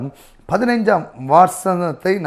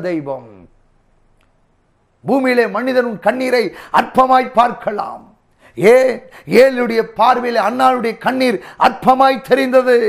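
high, emphatic sermon delivery; impassioned preaching; 5 semitones higher, 3 dB louder than usual. Real, not acted. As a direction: preach it out, driving each phrase home. Preaching builds above his talk. (உணர்ச்சிப் பெருக்கோடு உயர்ந்த குரலில் பிரசங்கம்)

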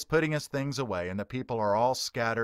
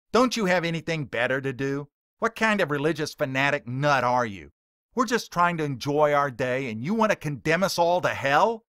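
louder, higher scornful heckling; mocking outrage; 3 semitones higher, 5 dB louder than usual. Heckler mocking the preacher to his face, louder and scornful. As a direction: sneer at him like he's a nut. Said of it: "Billy redirects his words to Ray".

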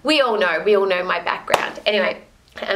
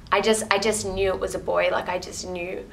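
getting emotional; 4 dB quieter than usual. Real, not acted. Mother telling viewers about her baby boy, softly emotional. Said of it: "I'm getting emotional".

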